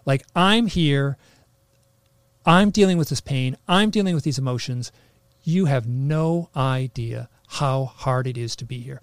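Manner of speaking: loud, slow, furious complaint; retold rage from the session, loud and slow; angry outburst. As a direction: let the anger pour out loud and slow. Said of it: "I am, like, so angry".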